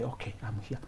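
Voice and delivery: very soft, nearly voiceless; faint, lifeless murmur; stressed, ghostlike reply. Acted. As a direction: barely announce yourself, drained. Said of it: "you walk in like a ghost".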